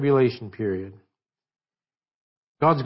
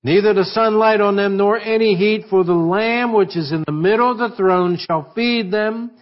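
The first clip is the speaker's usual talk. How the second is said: higher, lifted pulpit reading voice; scripture reading; 3 semitones higher than usual. Acted. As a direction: read Revelation out to the church, lifted. Reads Revelation aloud in church.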